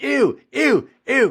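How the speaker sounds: very high-pitched, loud scream of disgust. Retelling how a child reacted after a sip, imitating Harold screaming. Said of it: "he starts screaming like".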